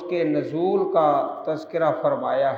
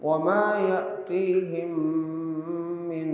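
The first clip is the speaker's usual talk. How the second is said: slow, melodic chanted Arabic recitation; Quran recitation; much slower than usual. Acted. Teacher recites Surah Zukhruf before explaining it, slow melodic chant. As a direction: draw each verse out in a sung tajweed chant.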